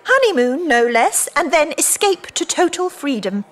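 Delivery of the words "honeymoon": mocking laugh. Mocking his romance.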